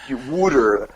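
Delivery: South Jersey "water" as "wooder"; South Jersey accent. Shown as a demonstration. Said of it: "that's how they talk".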